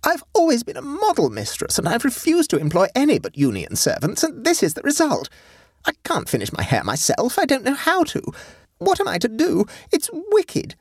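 high-pitched, aggrieved mistress; tragic lament. A narrator's reading. Mistress left with unfinished hair, tragic complaint. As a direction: lament it like a great tragedy. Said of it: "exclaimed Sophie tragically".

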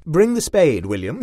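loud call across the road. A narrator's reading. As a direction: call it out to the chauffeur at a distance. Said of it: "he called to the chauffeur".

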